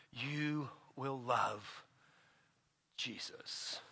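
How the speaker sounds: dropping to a near whisper on Jesus; hushed. Real, not acted. Preacher to congregation, sinking into a whisper. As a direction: let the name fall away to a breath.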